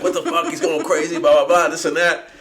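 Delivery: high, loud frantic yelling; yelling mom. Retold or imitated. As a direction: yell it like a panicked mother. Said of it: "throw water at me, like".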